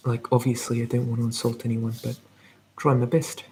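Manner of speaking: soft New Zealand accent, careful attempt. Shown as a demonstration. Streamer not wanting to insult anyone, tentative New Zealand accent. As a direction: keep up a gentle Kiwi accent. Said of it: "I'm trying to make it sound natural".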